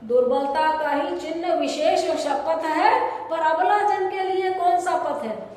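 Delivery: dramatic Hindi verse reading; poem recitation. Acted. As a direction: recite the couplet with a lilt.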